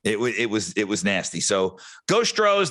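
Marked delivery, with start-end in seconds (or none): 2.1-2.7 higher, slow rallying cheer; cheer for the team. Real, not acted. Host cheering his team to the fan base, slow high cheer. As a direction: draw out a fan's cheer.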